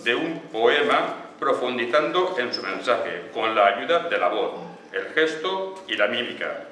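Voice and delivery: slow, declamatory reading in separate phrases; reading a definition aloud. Acted. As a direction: read it out deliberately, phrase by phrase. Reads chosen definition aloud. (lectura declamatoria y pausada)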